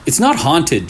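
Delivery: Gia insisting. Acted. Gia answers Leo's joke.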